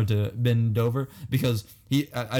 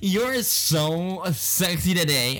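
hammed-up camp voice; 5 semitones higher, slower than usual. Continues camp gay impression.

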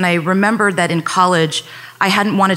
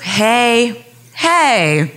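higher-pitched, urgent calling to de-escalate; urgent appeal; 4 semitones higher than usual. Retold or imitated. Neighbour to armed police officer, urgent appeal. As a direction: plead for calm, voice lifted.

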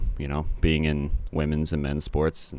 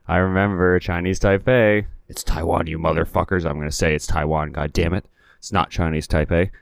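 mock indignant rant. Real, not acted. Ranting about Taiwan's name.

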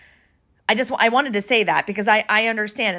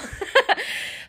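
soft breathy laugh through tears; teary laugh; 10 semitones higher, 4 dB quieter than usual. Real, not acted. To listeners, embarrassed at her tears, breathy laugh. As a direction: laugh off the emotion. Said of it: "this is me being a little emotional".

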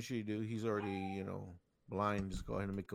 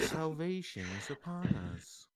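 mock cult preacher; 4 semitones higher than usual. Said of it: "This is like in a cult".

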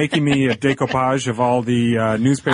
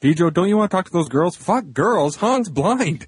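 put-on higher, fast teasing kid voice; mock dazed kid; 5 semitones higher than usual. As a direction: rattle it off like a kid who only cares about the spoiler. Mocking the spoiled kid at dance.

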